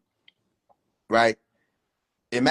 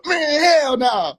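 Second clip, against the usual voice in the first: drawn-out outraged hell no; 11 semitones higher, 5 dB louder, much slower than usual. Real, not acted.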